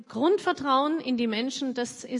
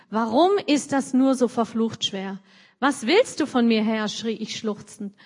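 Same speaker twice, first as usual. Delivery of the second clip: book passage read out a bit louder; reading aloud; 4 dB louder than usual. Acted. Host reading the guest's memoir aloud, dramatic read. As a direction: read the memoir lines with feeling.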